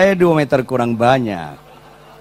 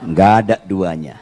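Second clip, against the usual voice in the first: laughing prayer; 7 semitones lower, 4 dB quieter than usual. Retold or imitated.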